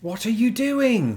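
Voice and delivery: slow, high, baffled question; incredulous. Real, not acted. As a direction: stare in disbelief as you ask. Watching her fold the pizza.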